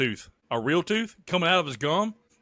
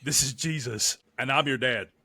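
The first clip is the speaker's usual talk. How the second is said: lightly voiced puppet playing the dad; a hint of a puppet voice, casual; puppet Jesus. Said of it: "This is gonna be Je".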